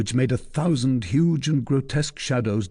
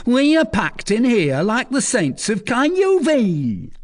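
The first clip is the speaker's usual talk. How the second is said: nasal Norman; 12 semitones higher, 5 dB louder than usual. A narrator's reading. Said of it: "recognizable by his nasal accent".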